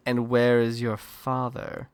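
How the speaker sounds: slow, pointed question; mock disdain. Parents waiting to ask about his father, slow mock disdain. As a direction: drag it out like a judging parent.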